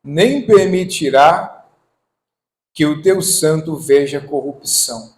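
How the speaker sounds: proclaimed Bible verse; scripture reading. Acted. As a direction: read the verse out solemnly, opening strong. Reads scripture aloud to congregation.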